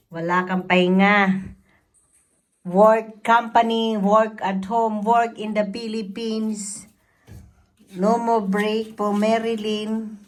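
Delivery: loud mock complaint about work; exasperated rant. Real, not acted. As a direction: vent loudly, half joking.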